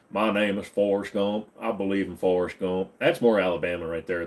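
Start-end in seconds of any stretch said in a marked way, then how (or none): 0.1-2.9 Forrest Gump drawl. Retold or imitated. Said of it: "it's almost going Forrest Gump".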